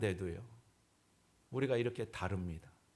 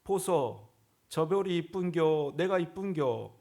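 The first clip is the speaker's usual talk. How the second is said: slow Gyeongsang dialect question, a bit raised; playful imitation of a Gyeongsang wife; 3 semitones higher, 4 dB louder, slower than usual. Pastor imitates a Gyeongsang wife asking her husband, in Gyeongsang dialect. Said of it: "경상도 아내가".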